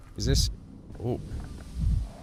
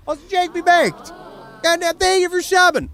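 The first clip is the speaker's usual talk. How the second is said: voiced character; 5 dB louder than usual. Voicing a game character.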